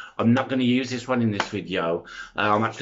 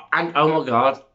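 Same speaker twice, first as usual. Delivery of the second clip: bursting out, louder and higher; excited outburst; 4 semitones higher, 5 dB louder than usual. Real, not acted. Vlogger overexcited about the new Matrix film, loud excited burst. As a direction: blurt it out in sudden delight. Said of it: "you need to calm down".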